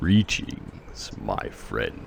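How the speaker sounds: deep baritone voice. Describing to the group a voice in Uker's mind: Shimmernax deep baritone voice. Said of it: "in a deep baritone voice".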